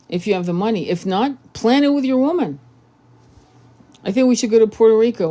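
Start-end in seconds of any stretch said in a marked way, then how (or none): 4.0-5.3 eager quick suggestion. Retold or imitated. Acting out couple's planning.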